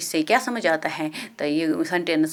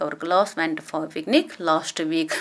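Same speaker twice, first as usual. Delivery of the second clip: slow dictation; much slower than usual. Shown as a demonstration. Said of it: "rearrange करेंगे correct order में".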